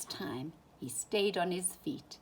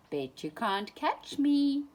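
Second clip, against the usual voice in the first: calling out; 8 semitones higher, 5 dB louder than usual. A narrator's reading. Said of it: "called Faline".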